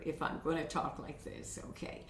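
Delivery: very low, soft, barely voiced; too low. Shown as a demonstration. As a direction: drop the voice down to almost nothing. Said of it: "The voice can be too low or too high here".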